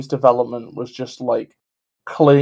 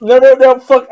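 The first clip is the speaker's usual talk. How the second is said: crying with rage; 7 semitones higher, 7 dB louder than usual. Real, not acted. Clip keeps playing, streamer despairs.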